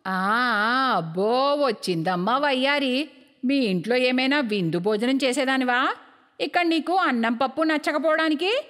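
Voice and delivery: sarcastic mother-in-law. Acted. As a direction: taunt the daughter-in-law for being fussy. Mother-in-law taunts daughter-in-law. (కోడలిని దెప్పిపొడిచే అత్తగారి స్వరం)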